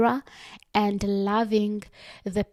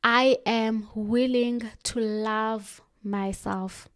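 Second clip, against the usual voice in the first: slow, each word placed with care; calm sincere promise; slow affirmation; slower than usual. Shown as a demonstration. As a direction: commit to it gently. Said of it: "You look yourself in the mirror and say".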